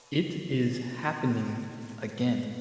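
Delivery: lightly voiced eerie voice from a rock; ominous voice. Game master voicing the rock in Mad's ear, ominous voice. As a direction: intone it with a hint of menace. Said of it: "you hear very ominously a voice go".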